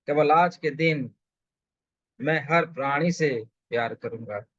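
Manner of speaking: measured vow, phrase by phrase; solemn daily pledge with spaced phrases; affirmation recital. Real, not acted. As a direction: recite each resolve deliberately for others to follow.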